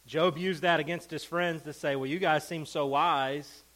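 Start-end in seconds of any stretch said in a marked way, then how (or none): 2.0-3.6 slow, mocking praise; sarcastic. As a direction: draw out the false compliment. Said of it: "he's doing it sarcastically".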